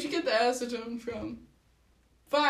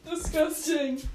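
mock disgust; 4 semitones higher, slower than usual. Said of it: "Why do you say it so badly?".

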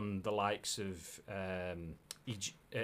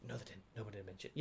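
much softer arguing with himself; inner voice; 14 dB quieter, faster than usual. Pretend. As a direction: mutter it like a voice in your head. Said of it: "Voices in your head".

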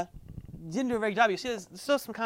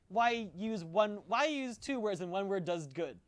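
terse druid; 4 dB quieter, slower than usual. Shown as a demonstration. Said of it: "Ryloff the Druid talks like".

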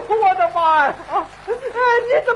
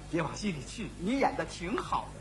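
fake comforting; 13 semitones lower, 14 dB quieter than usual. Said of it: "我对他说".

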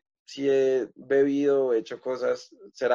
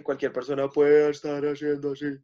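airy voice. Shown as a demonstration. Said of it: "haciendo así, de hablar así".

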